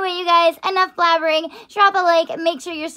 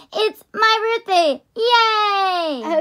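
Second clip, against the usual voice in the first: high-pitched birthday squeal; excited anime fan; 5 semitones higher, much slower than usual. Real, not acted. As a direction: cheer it like a giddy kawaii fan. Announcing her birthday haul.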